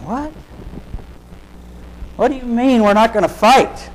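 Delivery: baffled protest. Acted. Peter questioning Jesus, baffled and indignant. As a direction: demand an answer in disbelief.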